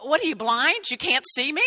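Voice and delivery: hammed-up, incredulous scolding for a joke; Jesus. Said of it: "Did he respond and go".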